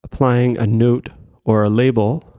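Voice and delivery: measured meditation-guide voice with long pauses; composed meditation instruction, pausing between phrases; guided meditation. Acted. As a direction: settle listeners into practice, phrase by phrase. Begins leading the guided meditation.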